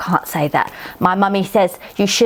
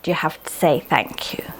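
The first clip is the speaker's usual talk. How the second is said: soft unvoiced confiding whisper; 4 semitones lower, 5 dB quieter than usual. Real, not acted. Child whispering the rule to the viewers, a soft whisper. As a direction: lean in and whisper it like advice.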